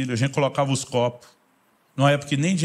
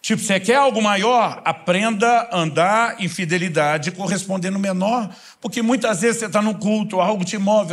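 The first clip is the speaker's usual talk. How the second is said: pregação enérgica, mais alta e aguda; exortação de pregador; 6 semitones higher, 3 dB louder than usual. Real, not acted. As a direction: exorte a congregação com força. Exortação à plateia em tom forte. (exortação firme, voz elevada)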